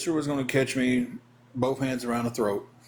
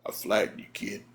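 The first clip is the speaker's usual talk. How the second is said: whispered, barely audible warning; Nelson whispering; 3 semitones lower, 4 dB quieter than usual. Retold or imitated. Big man pinned on him whispers a warning. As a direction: breathe the words to the kid under him. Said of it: "that big old deep voice".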